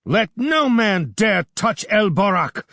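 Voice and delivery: high, loud challenge; young warrior defending his friend; challenging. A narrator's reading. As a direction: dare anyone to move. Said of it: "challenged Bardilis".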